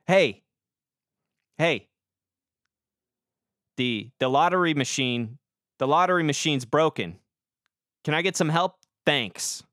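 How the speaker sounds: loud, pushy complaint; guy shouting at cashier about lottery machine, pushy; rude customer demanding. Retold or imitated. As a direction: bark it at the cashier like an entitled customer.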